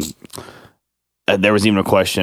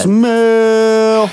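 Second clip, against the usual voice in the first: wrestler catchphrase; 14 semitones higher, 4 dB louder than usual. Retold or imitated.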